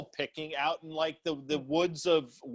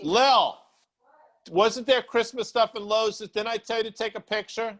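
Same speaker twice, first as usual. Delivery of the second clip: raised, higher voice calling off-mic; calling to daughter; 6 semitones higher than usual. Real, not acted. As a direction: call out to someone in the next room. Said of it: "I'm asking my daughter".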